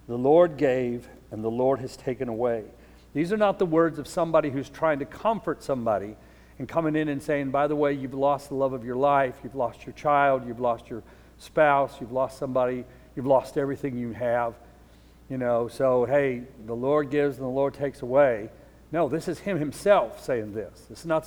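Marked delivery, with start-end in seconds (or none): 0.1-2.7 grave, unhurried scripture voice; solemn scripture. Acted. Job's solemn words of worship. 7.5-18.5 mildly offhand platitude, lightly acted; a hint of a careless comforter; trite, uncaring. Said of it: "They come off real trite and uncaring".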